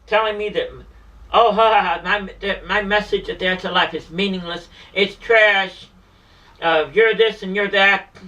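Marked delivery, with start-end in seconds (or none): 1.3-8.1 mocking laugh. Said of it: "she laughs in my face".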